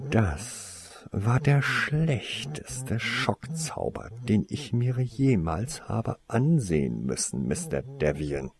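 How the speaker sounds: slow, drawn-out scornful rebuke; a lightly voiced outraged teacher; indignant Snape. Snape scolding the Slytherin for his bad spell, slow scornful rebuke. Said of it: "erklang die aufgebrachte Stimme des Professors".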